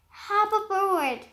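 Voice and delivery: bright, amused invitation; laughing. Acted. Bug invites the spider, laughing lightly. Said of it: "laughed the bug".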